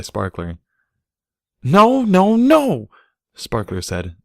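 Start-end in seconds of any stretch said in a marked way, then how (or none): 1.6-2.9 high, loud panicked protest; frantic no. A narrator's reading. Filly frantically silencing her boyfriend. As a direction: cut him off in a panic.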